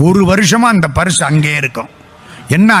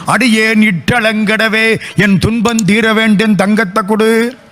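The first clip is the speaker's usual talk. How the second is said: slightly raised, chanting plea to God; devotional pleading; 3 semitones higher than usual. Acted. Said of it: "என்னென்னமோ கேட்டார்". (இறைவனிடம் மன்றாடும் குரல்)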